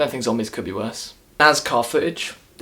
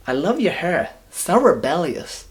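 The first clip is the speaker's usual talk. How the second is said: mocking gushing friend; 5 semitones higher, slower than usual. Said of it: "her friend goes to her".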